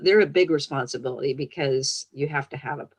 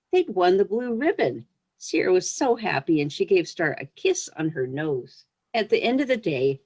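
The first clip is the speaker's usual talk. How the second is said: gentle read-aloud storytelling voice; story reading. Acted. Author reading her pony story to young listeners, storyteller voice. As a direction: read it like a picture book to children.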